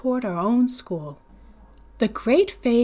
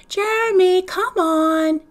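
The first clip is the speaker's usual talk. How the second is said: calling out; 10 semitones higher, 6 dB louder, slower than usual. Acted. Older sister calling brother.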